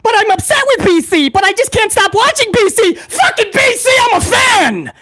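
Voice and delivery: mocking impression of an upset viewer; conflicted hate-watcher. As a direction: play a hater admitting he's a fan. Acts out conflicted hater.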